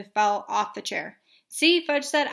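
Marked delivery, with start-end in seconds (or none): 1.5-1.8 high, loud gloating; triumphant. Acted. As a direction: crow about winning. Child triumphant.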